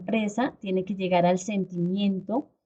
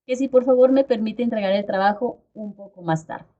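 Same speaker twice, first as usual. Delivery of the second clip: non-assertive plea. Shown as a demonstration. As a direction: beg the teacher, going round in circles. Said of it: "Esa es una comunicación no asertiva". (súplica indecisa y poco asertiva)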